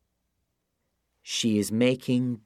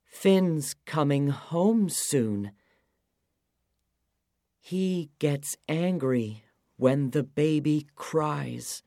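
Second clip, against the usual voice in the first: lightly voiced worried wife; higher pleading voice; high woman's voice; 6 semitones higher, 4 dB louder than usual. Oonagh's voice in story.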